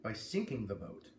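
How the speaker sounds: steady, clear read-aloud of a book blurb; story narration. A narrator's reading. A reader sharing a novel's blurb, in story narration. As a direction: read the back cover to your listeners.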